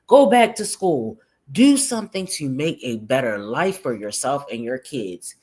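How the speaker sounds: deliberate, punchy reading aloud; emphatic comment read-out. Acted. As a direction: read it out like a scolding lecture. Reads a viewer comment aloud.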